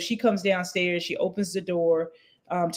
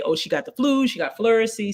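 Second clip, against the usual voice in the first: casual guess; 5 semitones higher than usual. Retold or imitated. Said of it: "he's in this mood".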